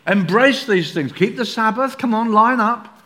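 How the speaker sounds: hammed-up insistent pressure; pushy urging. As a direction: lean on them to line up. Judaizers urging full commitment.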